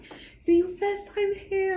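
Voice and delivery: high, slow put-on driver voice; a friendly cabbie asking a newcomer; playful cab-driver impression; imitating the cab driver.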